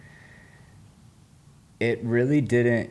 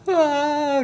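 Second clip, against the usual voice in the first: retold bawling cry; 5 dB louder than usual. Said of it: "just bawling".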